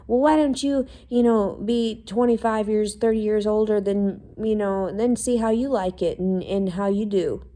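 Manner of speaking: a mocking imitation of mom talking back; mocking mother.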